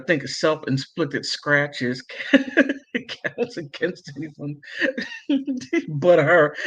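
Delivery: reading through giggles; can barely get the words out for laughing; a chat message read between real laughs; laughing while reading. Real, not acted. Reading chat comment, cracking up.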